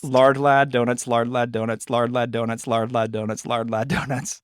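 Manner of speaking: even, unbroken run of a tongue twister; tongue-twister repetition. Shown as a demonstration. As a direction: rattle it off five times in a row. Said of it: "say that five times fast".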